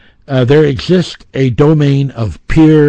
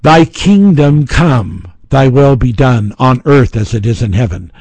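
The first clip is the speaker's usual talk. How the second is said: prayer recitation; 3 dB louder than usual. Retold or imitated. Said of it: "when the Bible says".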